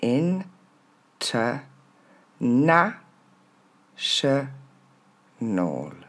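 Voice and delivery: IN, TE, NA, CHE, NOL with long gaps; syllable by syllable. Shown as a demonstration. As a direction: spell out the sounds, NA highest and loudest. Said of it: "Plus lentement".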